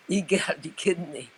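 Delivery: amused, can't-believe-it; giggling at an absurd offer; laughing disbelief. Real, not acted. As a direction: laugh through the words in disbelief.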